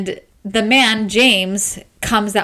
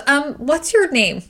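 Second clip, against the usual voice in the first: laughing sheepishly; 5 semitones higher than usual. Retold or imitated. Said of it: "she goes".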